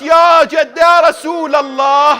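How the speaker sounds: loud, drawn-out wail of lament; crying out in grief. Acted. Fatima calls to the Prophet, crying out in grief. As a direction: call out the loss to the grandfather. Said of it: "she cried out".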